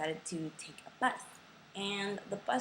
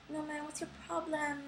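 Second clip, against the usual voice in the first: pitched-up mimicking man; high mock of the driver; 8 semitones higher, 4 dB quieter than usual. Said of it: "And then he's like".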